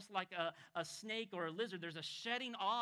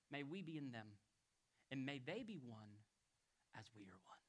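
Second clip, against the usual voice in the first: fading lower and softer into near silence; hushed prayer; 7 semitones lower, 6 dB quieter than usual. Acted. Preacher voicing Jesus praying to the Father, fading hush. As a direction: let the prayer die away to a hush.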